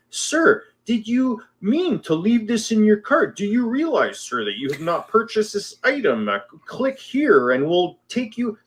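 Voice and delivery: high, overly polite mock sales voice; mock customer-service email. Podcaster mocking a store's cart reminder emails in a high, overly polite voice. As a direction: ham up a pushy online shop's reminder email.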